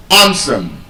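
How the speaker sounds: "handsome" as HAN-sum; silent D. Shown as a demonstration. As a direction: say "handsome" without the d, first syllable stressed. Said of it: "the D is silent".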